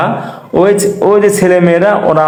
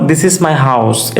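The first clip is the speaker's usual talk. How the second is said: slow model sentence; 3 semitones lower, much slower than usual. Shown as a demonstration. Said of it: "এইটা আমার ঘর".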